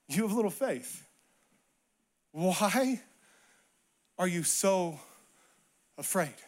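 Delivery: quiet, weary reproach with long pauses; hushed Jesus. Acted. Jesus answering panicked disciples in the storm, hushed reproach. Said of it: "This is his first words".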